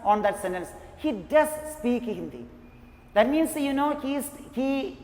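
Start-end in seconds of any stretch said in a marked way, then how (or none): 1.0-2.5 "does" stressed and set apart from "speak". Shown as a demonstration. Teacher explaining what emphasized means, stress on "does". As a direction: hit the word "does". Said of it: "Emphasized means to give a stress".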